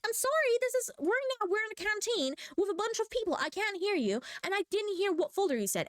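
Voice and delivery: high, defensive retold reply; mock flustered apology. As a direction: explain yourself to a shouting teacher.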